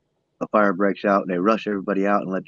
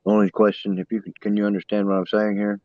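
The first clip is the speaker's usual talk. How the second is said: distorted, crackly phone mic; fuzzy, broken-up line audio; distortion. Real, not acted. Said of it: "Sorry for the distortion".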